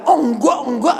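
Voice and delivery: high, loud startled no; hasty denial. Acted. Father denies he will buy a horse, flustered and high. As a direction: blurt the refusal as a flustered parent.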